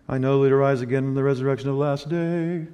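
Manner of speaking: a hint of synagogue chant. Martha reciting doctrine to Jesus, lightly chanted. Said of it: "Might have had a tone in it, like you hear it in the synagogue".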